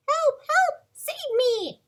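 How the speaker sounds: high, loud damsel cry for help; princess crying for help. Pretend. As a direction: shriek for rescue like a storybook princess. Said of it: "you are a brave princess".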